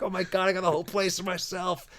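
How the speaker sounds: high-pitched giddy retelling; freaking out. Retold or imitated. Dad finds himself home alone for a night, giddily freaking out. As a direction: act out giddy glee at freedom. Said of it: "like, I'm freaking out".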